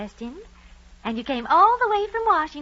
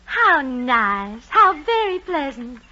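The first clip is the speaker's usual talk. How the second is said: gushing welcome; 4 semitones higher, 5 dB louder, slower than usual. Acted.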